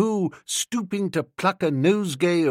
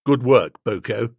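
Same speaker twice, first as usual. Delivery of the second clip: gruff approval; 5 semitones lower, 4 dB louder than usual. Acted. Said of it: "professional approbation".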